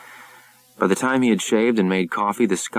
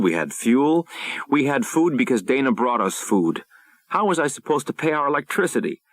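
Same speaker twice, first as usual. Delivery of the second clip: higher, pleading wife role; wife's desperate voice; 4 semitones higher than usual. Acted. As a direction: voice a distraught wife defending herself.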